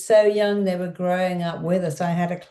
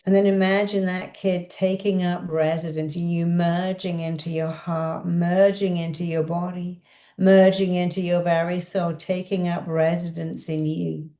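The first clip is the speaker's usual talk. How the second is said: guided visualization. Acted. Therapist guiding the listener to absorb their inner child. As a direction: lead the listener inward gently.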